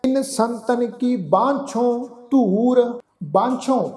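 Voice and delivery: measured Gurbani recitation with drawn-out line ends; reverent-style verse reading; scripture recitation. Shown as a demonstration. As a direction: recite phrase by phrase, pausing between.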